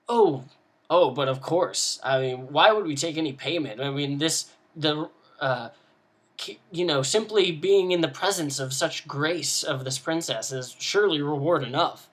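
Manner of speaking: dry mock praise, laying it on thick; sarcastic. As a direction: sneer at the paladin's princess worship, lightly voiced. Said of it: "I imagine her being pretty sarcastic".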